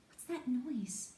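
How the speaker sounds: high, drawn-out worried question; sudden alarm. A narrator's reading. Youngest girl hears a noise in a strange house, sudden alarm. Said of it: "said Lucy suddenly".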